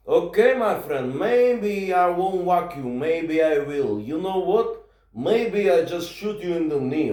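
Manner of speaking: slow, drawn-out gangster menace; mock threat. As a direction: threaten slowly, stretching the words. Retold threat to the passenger.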